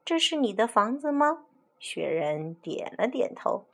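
put-on a cheerful little girl chatting to a yeti; girl Carmen.

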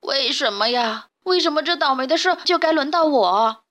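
rising, half-crying complaint; a touch of sobbing lamb; mild tearful wail. Acted. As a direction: whine it through tears, lightly. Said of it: "一把鼻涕一把泪地嚷嚷着".

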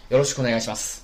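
fast, light repeat; quick polite bow phrase. Shown as a demonstration. Teacher repeats the card greeting, quickly. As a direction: rattle it off with a bow. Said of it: "然后鞠躬".

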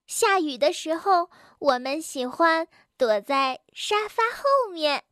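lightly voiced child, a bit high; chatty little animal child. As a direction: share a secret habit like a kid. Narrator voices child Bengbeng. (略高的小孩腔，天真地说)

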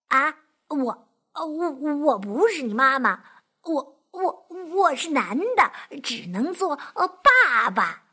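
halting, stumbling over each word; stammering fox. Acted. Fox stammering at the duckling, flustered. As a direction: stutter it out, flustered. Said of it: "结结巴巴地说".

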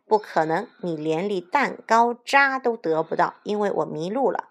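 mildly dismissive refusal; scornful. Acted. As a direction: brush the wolf off with light contempt. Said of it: "轻蔑地回答". (略带轻蔑地回绝)

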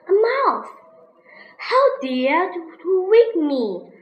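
a high, loud angry roar; roaring lion. Acted. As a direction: roar it at the little mouse. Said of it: "Lion roared".

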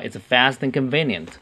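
"fast and" run together as "fasten"; "and" reduced and joined onto "fast"; linked reading. Shown as a demonstration. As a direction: link "fast and convenient" in one smooth flow. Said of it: "可以连读啊".

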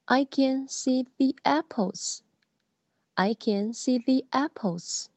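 "the" said as "thee" before "apples"; teaching "thee apples" to parents. Shown as a demonstration. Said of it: "注意是the apples".

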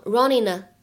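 "running a" joined as "runnin-na"; "running a" linked through a plain n; linked variant. Shown as a demonstration. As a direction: end "running" on n and carry it into "a". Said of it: "你也可以读成running呢".

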